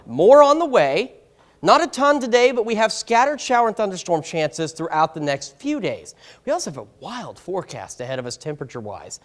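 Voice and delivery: breathless, short of air; out of breath. Real, not acted. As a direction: talk while winded, catching breath. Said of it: "I'm out of breath for some reason".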